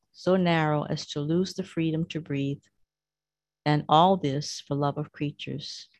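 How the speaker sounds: prayerful scripture-style reading; devotional reading. Acted. Reads Jesus' lament aloud.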